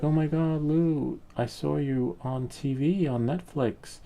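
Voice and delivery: high-pitched imitation of amazed friends; acted excitement, starting high and easing down; excited friends. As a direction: gush like a friend with big news. Friends excitedly report seeing him.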